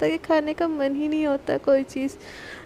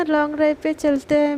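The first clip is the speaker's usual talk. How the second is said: sarcastic agreement. Retold or imitated. Angry Sana mocks the long-drive plan, sarcastic. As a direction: fake cheer with a bitter edge. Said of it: "सना की बातों से ही पता चल रहा होता है कि सना कितने ज़्यादा गुस्से में है".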